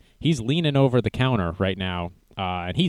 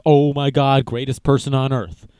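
mock gushing praise; 3 semitones higher, 5 dB louder than usual. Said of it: "Everyone on earth would be like".

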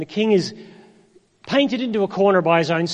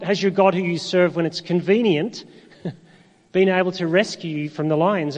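joking misquote, laughing through "convenient"; mock wrong version; 3 semitones higher than usual. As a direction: tease the wrong word "convenient" with a chuckle.

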